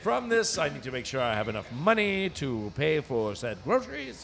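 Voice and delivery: hammed-up Northeastern accent. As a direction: order formally in a put-on Northeastern accent. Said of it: "I'm stuck on this accent".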